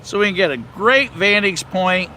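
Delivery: talking while the car bumps along; on a bumpy road. Real, not acted. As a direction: voice jostled by a bumpy ride. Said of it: "excuse the, the bumps here for a moment".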